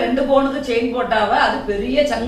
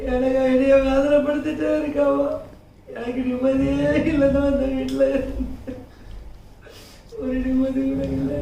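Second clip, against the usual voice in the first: tearful; 4 dB quieter than usual. Acted. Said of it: "அழாதையா".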